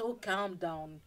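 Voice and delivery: low, soft brush-off; calming reply. Acted. Jesus answers the protest.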